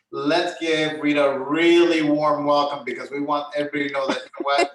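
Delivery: enthusiastic welcome. Real, not acted. Host welcoming new member.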